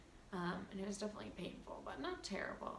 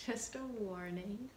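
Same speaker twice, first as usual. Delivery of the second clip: laughing warning. Real, not acted. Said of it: "it's very cringy".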